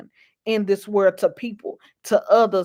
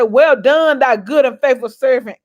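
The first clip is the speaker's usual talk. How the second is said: God's voice. Retold or imitated. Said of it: "And I want him to say".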